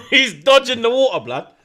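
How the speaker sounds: loud, high, laughing disbelief; high-pitched amused outburst; cracking up. Real, not acted. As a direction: laugh through your disbelief. Cracking up at a chat message.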